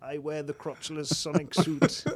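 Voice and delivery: slow, high booming megaphone proclamation; dark lord. Pretend. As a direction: proclaim it through a megaphone like a king. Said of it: "with a big megaphone".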